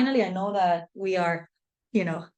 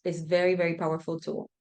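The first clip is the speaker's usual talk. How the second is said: breathless after talking fast; out of breath; 2 semitones lower than usual. Real, not acted. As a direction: run out of air mid-sentence. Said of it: "I'm out of breath".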